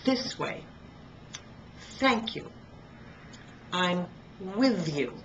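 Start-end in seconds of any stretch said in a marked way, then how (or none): 0.1-2.5 th in This and Thank with the tongue between the teeth; higher, careful th in This and Thank; teacher showing the th in This and Thank; th demo. Shown as a demonstration. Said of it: "just put your tongue between your teeth and blow air out".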